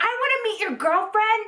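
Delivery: high-pitched little girl imitation; yelling little sister. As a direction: mimic a kid sister calling out at her brother. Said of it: "she's yelling at Carlos".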